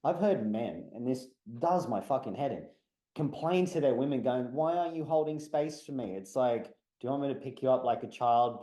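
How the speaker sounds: worked-up, emphatic rant; fired up. Real, not acted. Speaker on men wanting space held, fired up. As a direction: rant with real exasperation, slowing on the last punch. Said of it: "I'm kind of fired up about it".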